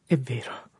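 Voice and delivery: strained. A narrator's reading. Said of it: "con sforzo visibile".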